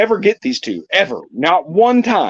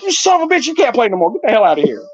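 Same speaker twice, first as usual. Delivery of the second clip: laughing mock yell; 5 semitones higher, faster than usual. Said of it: "I'm like".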